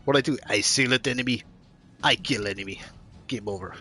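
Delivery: light mock Russian accent; blunt Russian soldier voice. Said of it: "That in my finest Russian accent".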